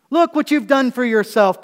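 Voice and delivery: Paul mocking the proud Corinthians; sarcastic. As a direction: needle them with mock praise. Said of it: "Paul is using, uh, sarcasm here".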